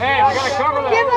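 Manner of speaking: calling out. Real, not acted. Calling out in game.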